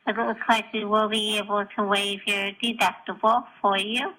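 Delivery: voicemail over the phone; recorded phone message; answering machine message. Real, not acted. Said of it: "this gem of a voicemail".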